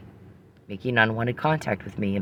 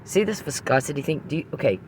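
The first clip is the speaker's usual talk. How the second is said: boiling over with irritation; pissed off; 4 semitones higher than usual. Real, not acted. Woman venting about a pointless oil question, pissed off. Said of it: "'cause I'm getting pissed".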